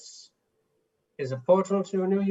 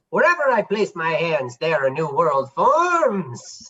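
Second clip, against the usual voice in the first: grand magician voice; 5 dB louder than usual. Acted. Magician librarian grand proclamation.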